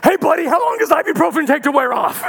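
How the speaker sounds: breezy and oblivious; cheerful clueless friend. Retold or imitated. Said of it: "And I'm like".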